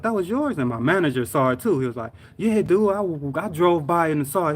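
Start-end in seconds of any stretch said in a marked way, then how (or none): 0.0-0.6 high-pitched astonished question; retold disbelief. Coworker who saw the wreck, amazed. 2.4-4.5 higher, excited voice; retold amazement. Manager who drove by the wreck, amazed.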